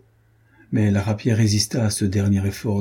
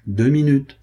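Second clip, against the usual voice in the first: stern warning; 5 semitones higher, 4 dB louder than usual. A narrator's reading. Threat counting down minutes.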